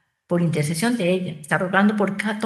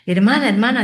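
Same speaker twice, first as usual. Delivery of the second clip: louder, impulsive outburst; spontaneous, eager call; 2 semitones higher, 5 dB louder than usual. Acted. Soldier calls the nursing sister about the miracle book, spontaneous. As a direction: call out spontaneously, a touch urgent. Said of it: "dice rápido y espontáneamente".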